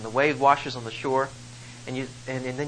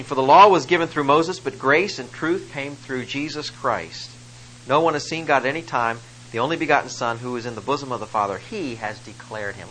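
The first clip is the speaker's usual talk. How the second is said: measured formal scripture read. Acted. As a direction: read it out like holy text, lifted. Reads scripture aloud.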